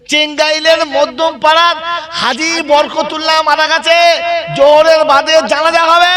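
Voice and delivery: high, loud public-address call; mock loudspeaker announcement. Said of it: "মাইকে ঘোষণা হচ্ছে".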